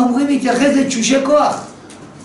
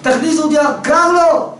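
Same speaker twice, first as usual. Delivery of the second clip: pitched up, pleading cry to be let in; mild mock shout; 7 semitones higher than usual. Old father shut out in the rain, crying to be let in. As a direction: call out from the cold, half-acted. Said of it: "צועק".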